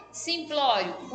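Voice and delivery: Simplório slowly, stressed on pló; stress on penultimate syllable. Shown as a demonstration. Teacher showing pupils where Simplório is stressed, pló drawn out slowly. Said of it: "então simplório está na penúltima".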